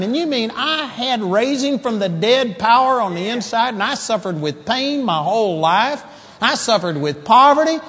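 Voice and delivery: high, incredulous mock realization; indignant disbelief, rising at the end; shocked disbelief. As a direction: act out someone astonished at what they missed. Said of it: "we're gonna be shocked".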